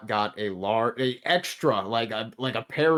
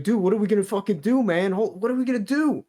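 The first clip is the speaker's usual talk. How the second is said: high, fast, panicky mock freakout; imitating a coworker losing it, fast and high; panicked coworker; 9 semitones higher, 4 dB louder than usual. Coworker panicking on the night shift, fast high mock panic. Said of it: "he's, like, freaking out".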